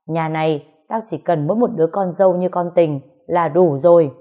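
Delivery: fast, stern scolding of his son; a proud father turned harsh; father slaps son and scolds him sternly; stern angry father. Acted. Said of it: "nghiêm giọng nói".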